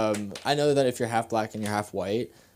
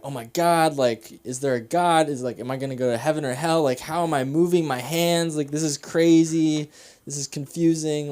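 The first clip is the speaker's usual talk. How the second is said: freaking out; 3 semitones higher, 4 dB louder than usual. Retold or imitated. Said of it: "I'm freaking out".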